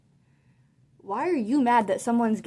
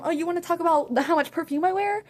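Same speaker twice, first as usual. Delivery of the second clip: high, louder snotty mimicry; sing-song mock taunt; mocking the girl; 6 semitones higher, 5 dB louder than usual. To the narrator, mimicking the girl's taunt. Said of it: "talking about some".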